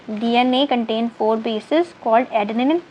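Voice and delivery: slow dictation. Acted. Dictating notes slowly in English.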